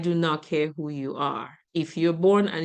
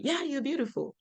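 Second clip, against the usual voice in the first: kind reassurance; 7 semitones higher, 5 dB quieter than usual. Retold or imitated. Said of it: "the kind things that you could say".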